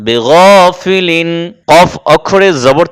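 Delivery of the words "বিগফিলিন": 'বিগফিলিন' very drawn out, rounded 'gho'; heavy gh. Shown as a demonstration. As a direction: recite 'বিগফিলিন' slowly with long vowels and thick 'gho'. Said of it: "এই কারণে গইন জবর গ".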